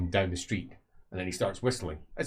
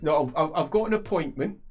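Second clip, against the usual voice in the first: slightly louder; 8 semitones higher, 4 dB louder than usual. A narrator's reading. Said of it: "he says slightly louder".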